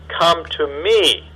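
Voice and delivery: slow, drawn-out invitation; gentle appeal. Shown as a demonstration. Jesus inviting all to come, slow and gentle. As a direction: linger on each word, inviting. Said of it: "the appeal in Jesus' voice".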